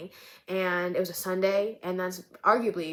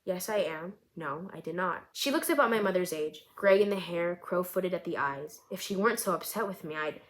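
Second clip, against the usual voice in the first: measured, even reading of her own story; story narration. A narrator's reading. Author reading her short story aloud to listeners, calm narration.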